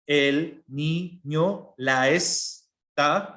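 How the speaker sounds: "el niño, la esta" said very slowly, vowels linked; slow sinalefa demo. Shown as a demonstration. Teacher slowly demonstrating the sinalefa to students. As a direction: draw out the words, joining the vowels across them. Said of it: "Como el caso".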